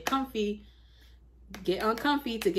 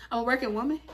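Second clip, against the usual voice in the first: put-on voice; 2 semitones higher, much faster than usual. Shown as a demonstration. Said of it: "Why did I say it like that?".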